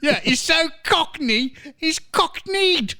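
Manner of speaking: high-pitched, gleeful teasing; laughing tease. Real, not acted. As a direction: squeal the pun through laughter. Host laughing over guest being Cockney.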